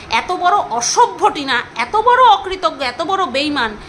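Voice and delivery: each insult dragged out slowly, bitter; slow angry insults. Real, not acted. Scorning the friend who betrayed her, slow bitter contempt. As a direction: spit out the names slowly in anger.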